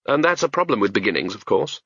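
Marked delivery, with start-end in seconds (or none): none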